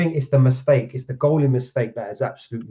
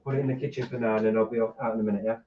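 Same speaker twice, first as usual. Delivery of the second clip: quiet aside; 8 dB quieter, much faster than usual. Real, not acted. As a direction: speak softly away from the audience. Aside to kids just come home.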